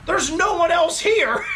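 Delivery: slow and high, laughing through it; can't believe it, laugh it out; half-shouted laughing realization; laughing disbelief. Real, not acted.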